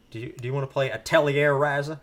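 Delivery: put-on a playful French accent on "Atelier Ryza". Host offering a game in a mock French accent. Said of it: "I had to put on that accent".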